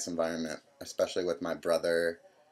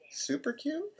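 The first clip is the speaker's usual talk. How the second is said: much higher mock mom voice, rising question; imitating mom; 3 dB quieter, slower than usual. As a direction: echo it back high and incredulous like mom.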